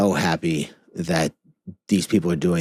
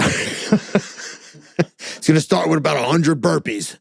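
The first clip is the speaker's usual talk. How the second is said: slow, high words through laughter; laughing; 10 semitones higher, much slower than usual. Real, not acted. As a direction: giggle out the joke. Joking about the exhausting delivery.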